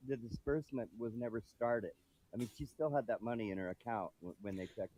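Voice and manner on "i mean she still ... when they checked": distant muffled mic; faraway voice on a bad line; through a wall. Real, not acted. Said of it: "why do you sound so far away".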